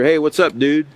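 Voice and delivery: mock casual greeting. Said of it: "you don't tell your teacher".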